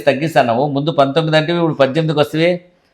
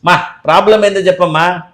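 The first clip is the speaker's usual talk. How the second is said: mildly shouting at a patient; higher, exasperated scolding; exasperated raised voice; 3 semitones higher than usual. Acted. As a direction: raise your voice a little, impatient. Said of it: "గట్టి గట్టిగా అరుస్తున్నావు నా మీద".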